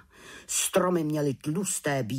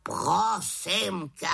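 exasperated raven; 6 semitones higher, much slower than usual. Acted. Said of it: "vykřikl Havran".

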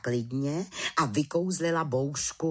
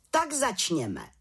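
slow, lightly raised opening call; chief witch calls out; 7 semitones higher, slower than usual. A narrator's reading. The chief witch opens the council with a slow call. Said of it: "zvolala vrchní čarodějnice".

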